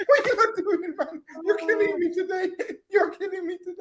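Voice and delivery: high, teary laughing; crying with laughter. Real, not acted. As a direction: laugh till you nearly cry.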